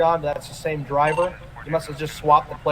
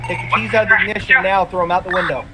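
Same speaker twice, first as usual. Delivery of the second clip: shouted command; 3 semitones higher, faster than usual. Real, not acted. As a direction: bark the order at the driver. Officer commands driver at gunpoint.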